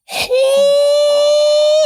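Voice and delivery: high, loud cry of shock; a hammed-up gasp of surprise. Husband imitating his reaction to the therapist. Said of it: "And I was like".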